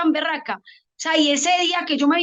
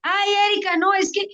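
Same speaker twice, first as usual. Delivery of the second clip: higher-pitched imitation of a friend; chatting friend; 4 semitones higher than usual. Friend chatting to the reporter about skinny dogs, higher-pitched imitation. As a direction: quote a friend's colourful remark, pitched up. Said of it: "cuando están conversando los amigos míos".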